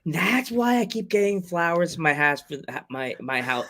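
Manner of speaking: put-on light Brooklyn accent on house. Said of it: "my sister's Brooklyn accent's trying to come through me".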